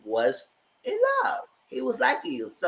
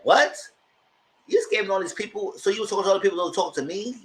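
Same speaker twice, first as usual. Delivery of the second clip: mock outrage; 5 semitones higher, faster than usual. Vonnie confronting Keandre.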